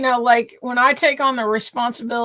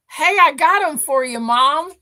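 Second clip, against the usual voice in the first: lightly voiced proud dog, a bit higher and louder; 5 semitones higher, 5 dB louder than usual. Owner voicing her dog showing off the piglets he killed, lightly mock proud. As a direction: play the dog bragging about his kill, lightly. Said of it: "it was almost like".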